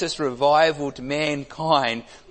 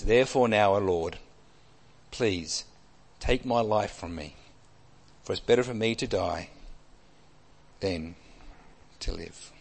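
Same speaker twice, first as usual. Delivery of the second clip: sad prayer; 4 semitones lower than usual. Acted. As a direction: let the prayer sink away in despair. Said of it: "It's a sad prayer".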